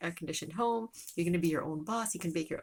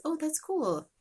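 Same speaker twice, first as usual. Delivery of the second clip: higher, louder delighted oh; a teacher charmed by the story; teacher's reply; 10 semitones higher, 4 dB louder, slower than usual. Acted. Teacher answering the child's summer story, delighted. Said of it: "and then she says".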